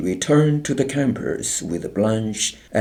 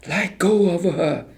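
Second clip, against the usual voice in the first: high, sharp scream; 10 semitones higher than usual. A narrator's reading. Helen screams at soldiers carrying a girl. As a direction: scream at them to let go. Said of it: "she screamed".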